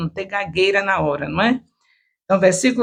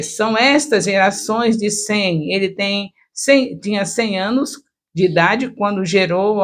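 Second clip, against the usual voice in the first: good intonation; 2 semitones higher than usual. Shown as a demonstration. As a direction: declaim the genealogy clearly. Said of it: "também com aquela voz, com uma boa entonação".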